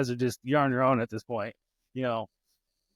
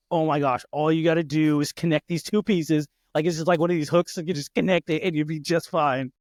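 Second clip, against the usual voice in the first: exasperated, raised voice imitation of an impatient dad; acted-out frustration, higher and pushed; frustrated parent; 4 semitones higher, 4 dB louder than usual. Dad watching daughter fumble the pieces, acting frustrated. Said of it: "it's frustrating to watch".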